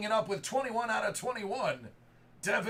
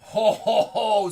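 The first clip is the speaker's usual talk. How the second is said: loud, hearty ho ho ho over a big pull; booming ho ho ho; 11 dB louder than usual. Real, not acted. Card breaker cheering a smoking first pull, booming ho ho ho. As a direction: belt it like Santa cheering a hit. Opening a box, big hit.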